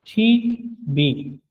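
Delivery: "शी बी" spelled out slowly, one syllable at a time; "शी" and "बी" each spoken slowly and on its own; slow syllable-by-syllable demo. Shown as a demonstration. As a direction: break "शी बी" into two clear syllables. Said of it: "इसका सही sound जो है वो शी बी".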